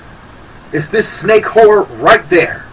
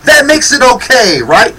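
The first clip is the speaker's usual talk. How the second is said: mocking, pitched up with a laugh; sarcastic; 3 semitones higher than usual. Real, not acted. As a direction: sneer it like you're pretending to agree. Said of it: "Of course I'm being sarcastic".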